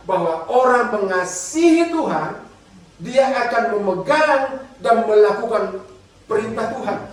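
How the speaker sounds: slow, weighty scripture reading. Shown as a demonstration. Preacher reading scripture slowly to the congregation. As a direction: read the verse slowly and deliberately. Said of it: "Saya ulang lagi".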